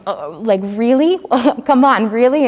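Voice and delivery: laughing, rising mock complaint; a half-laughing come on, really; laughing protest. Teresa laughingly protests to Christ, voice rising. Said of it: "she kind of says to him".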